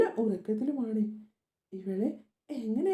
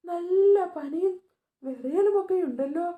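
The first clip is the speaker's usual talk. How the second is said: alarmed; 4 semitones higher than usual. Acted. Mother discovering her daughter's fever, alarmed. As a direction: gasp out the worry over the fever.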